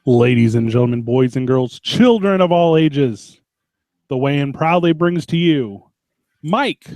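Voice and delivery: circus ringmaster announcement, drawn out; slow grand ringmaster intro. Acted.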